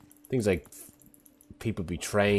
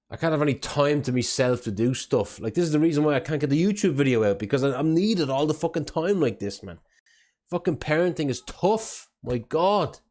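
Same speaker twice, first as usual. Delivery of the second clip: exasperated rant; 7 semitones higher, 4 dB louder than usual. Real, not acted. Streamer venting about his crying son.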